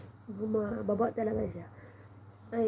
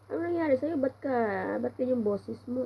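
higher-pitched, worried questioning; in-law pitched higher, asking about the sick voice; concerned in-law; 4 semitones higher, 4 dB louder than usual. Retold or imitated. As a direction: voice the in-law asking what's wrong. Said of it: "Sabi niya".

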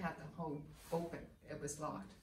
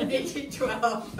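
slow, loud, laughing, higher; laughing shouted correction; 6 semitones higher, 11 dB louder, much slower than usual. Real, not acted. To the visitors, loudly fixing the year while still laughing. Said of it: "Eighteen oh twelve".

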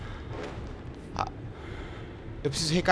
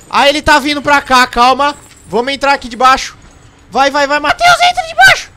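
high, loud frantic yelling; panicked shouting; 8 semitones higher, 11 dB louder than usual. Real, not acted. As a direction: yell in a rising panic. Monster coming, rushing to hide.

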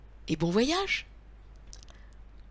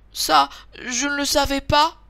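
higher, lightly voiced little-girl excuse; apologetic little girl; 6 semitones higher, 5 dB louder than usual. A narrator's reading. Boucle d'Or excuses herself to the bears, light higher voice.

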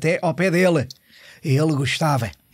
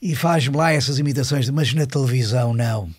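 Hermano Saraiva impression. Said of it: "disse-me". (imitação leve e pausada do professor)

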